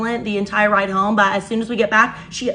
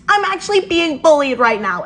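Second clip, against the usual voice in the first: higher-pitched, put-on tearful complaint; mock waterworks; 5 semitones higher, 3 dB louder than usual. Stepsister complaining to her mom, mock tearful. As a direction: imitate someone faking tears for sympathy. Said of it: "puts on the waterworks".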